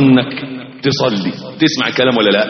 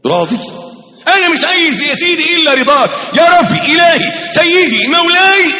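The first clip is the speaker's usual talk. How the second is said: pretend sincere prayer; 3 semitones higher than usual. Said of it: "تصلي وتقول له".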